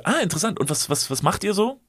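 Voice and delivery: high prying lilt; feigned interest, pitched high; nosy stranger again. Retold or imitated. High and prying, the stranger questioning them over lunch. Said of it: "Und ich so".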